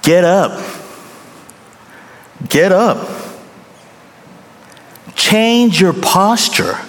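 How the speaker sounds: stern dad orders, slowing down; father commanding his kids to get up; firm command. Retold or imitated. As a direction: bark it like a father. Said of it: "Do you know what I tell them?".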